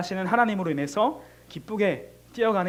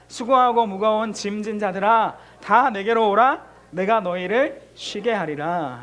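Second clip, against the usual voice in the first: louder second reading; 5 dB louder, slower than usual. Shown as a demonstration. Pastor repeating the verse reading, louder and firmer. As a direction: read it again, louder and slow. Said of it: "한 번 더 읽을게요".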